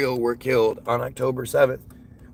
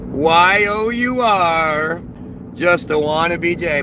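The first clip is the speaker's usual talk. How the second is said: mocking read-out; 3 dB louder, slower than usual. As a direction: spell out each letter very slowly, mocking the commenter. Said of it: "the smart person in the comments just said".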